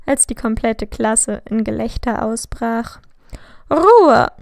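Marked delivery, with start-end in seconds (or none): 3.7-4.3 much higher, much louder order for silence; commanding shout. A narrator's reading. Teacher shouts at laughing class, commanding. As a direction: silence the whole room in one word. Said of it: "rief Professor McGonagall".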